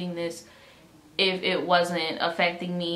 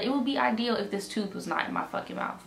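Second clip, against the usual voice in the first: higher-pitched retort at normal volume; snappy without yelling; 4 semitones higher, faster than usual. Shown as a demonstration. Patient showing how she answered the nurse, snappy without yelling. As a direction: make the point without raising your voice. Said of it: "like, in that same tone".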